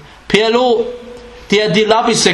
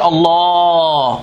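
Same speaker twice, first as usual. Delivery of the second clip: mock swooning listener; 3 semitones lower than usual. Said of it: "så står man og siger".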